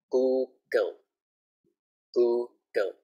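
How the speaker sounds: "Google" ending in a clear L; final L. Shown as a demonstration. Teacher teaching Thai learners a final L. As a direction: model the English "Google". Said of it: "we have to say L".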